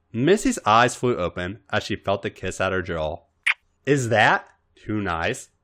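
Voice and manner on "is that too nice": slow, innocent wondering question; sincere wonder. Acted. Robin to Missy, mock-innocent sincere wonder. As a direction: ask it with wide-eyed sincerity. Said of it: "all sincere wonder again".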